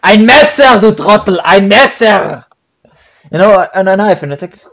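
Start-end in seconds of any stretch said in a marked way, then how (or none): 0.0-2.4 mock scolding. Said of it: "scolding the asker as idiot".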